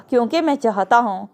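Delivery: extra weight on the word میں; stress on میں. A narrator's reading. Meer Haroon answers Riya's "why", stressing میں. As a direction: lean on میں, meaning "I" and nobody else. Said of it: "میں پر زور دے کے کہا".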